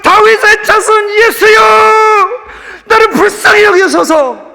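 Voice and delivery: high, loud pleading shout; desperate cry. Acted. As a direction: cry out to be heard over the crowd. Blind man crying out to Jesus.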